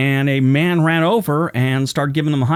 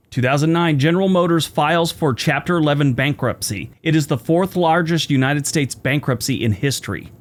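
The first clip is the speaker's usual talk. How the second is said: lisping after dental work; slight lisp. Real, not acted. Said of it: "Sorry about a lisp I have today".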